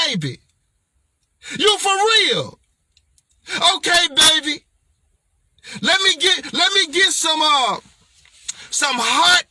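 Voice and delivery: rally the book like a partner before a big day; pep talk to product. Shown as a demonstration. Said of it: "That's how I talk".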